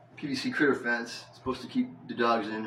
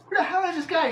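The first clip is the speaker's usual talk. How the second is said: exasperated disbelief; 4 dB louder than usual. Retold or imitated.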